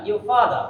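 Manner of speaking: your father as "yo fada", no r; R silent. Shown as a demonstration. Teacher summing up the rule, your father without r. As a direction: drop both final r's in your father. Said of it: "আর এর উচ্চারণটা হবে না".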